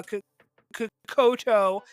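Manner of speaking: KOTO after halting false starts on K; stumbling over a name. Real, not acted. Host handing over to a builder, stumbling on his name. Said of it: "I always say his name wrong".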